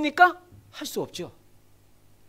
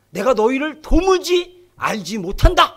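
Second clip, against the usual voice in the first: stern Jesus; 6 dB louder, slower than usual. Acted. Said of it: "근데 예수님이 뭐라 그럽니까?".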